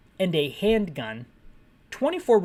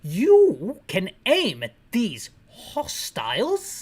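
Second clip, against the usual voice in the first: slow mock British read of the game text; British accent; 3 dB louder, slower than usual. HQ officer briefing Barry, in a mock British accent. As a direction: stretch it out like a stiff British officer. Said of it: "Is that how they say hostiles in Britain?".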